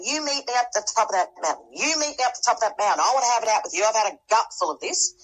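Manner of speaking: a touch of defiant anger; mild mock yelling. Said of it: "yelling at God the whole way".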